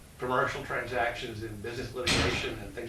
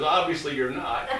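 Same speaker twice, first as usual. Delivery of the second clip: the dean's line with a laugh in it; chuckling; 3 semitones higher, 6 dB louder than usual. Retold or imitated. Dean amused by the applicant's answer, chuckling. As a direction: chuckle through the words, amused. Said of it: "He chuckled".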